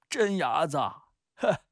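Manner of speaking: high, loud, teasing character voice; joking old playmate. Acted. Old village playmate jokes with returning Peng, teasing. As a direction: tease an old friend at full voice, drawing it out. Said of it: "走上来开玩笑".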